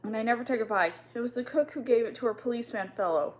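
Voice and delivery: sobbing. Acted. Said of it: "sob into her pillow".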